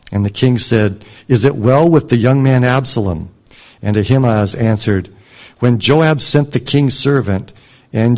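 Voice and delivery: scripture reading. Acted. Preacher reading the verses aloud to the congregation, measured and clear. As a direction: read the passage out to the congregation.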